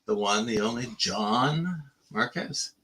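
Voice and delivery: slow, drawn-out showman intro; enthusiastic announcer. Shown as a demonstration. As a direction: announce yourself like a host. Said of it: "I had a lot more enthusiasm in it than you did".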